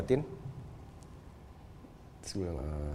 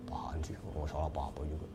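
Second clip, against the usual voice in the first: low, hushed near-whisper; quiet retold reply; 7 semitones lower, 9 dB quieter than usual. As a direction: voice a sick father softly waving off an apology. Retold weak father answering apology.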